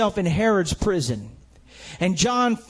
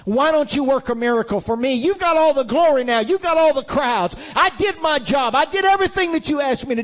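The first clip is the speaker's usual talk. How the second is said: indignant demand; 4 semitones higher, faster than usual. Pretend. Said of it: "John wasn't saying".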